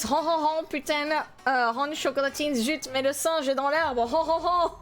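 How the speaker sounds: lightly mocking French gibberish; mock French accent. Viewer mocks streamer's French with a light mock French accent. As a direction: parody French chatter with hon hon. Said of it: "All I hear is".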